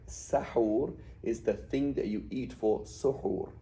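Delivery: slow SAHUR with a, SUHOOR with u; vowel pattern contrast. Shown as a demonstration. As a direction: set open SAHUR against rounded SUHOOR. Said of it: "this pattern".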